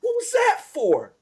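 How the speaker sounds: high, slow goblin voice. Acted. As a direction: pitch it way up like a hurt goblin. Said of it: "he kinda looks at you and was like".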